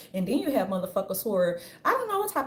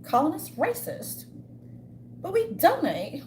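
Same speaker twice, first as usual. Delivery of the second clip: Karen impression; 3 dB quieter than usual. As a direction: mimic a pampered Karen purring. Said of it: "the Karens just used to".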